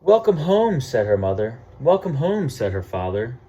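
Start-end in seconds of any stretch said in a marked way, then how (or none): 0.0-0.8 bright, loud, high welcome home; a parent's happy loud welcome; cheery welcome. Acted. Parents greeting warmly. 1.8-2.5 bright, loud, high welcome home; a parent's happy loud welcome; cheery welcome. Acted. Parents greeting warmly.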